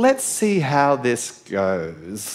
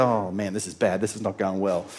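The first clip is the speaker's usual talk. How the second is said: worried mutter; 8 semitones lower, 5 dB quieter than usual. Retold or imitated. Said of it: "servant's inner panic".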